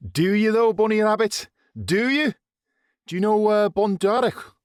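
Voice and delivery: high, loud mocking questions; teasing. A narrator's reading. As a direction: needle him playfully. Greaves grabbing him teasing.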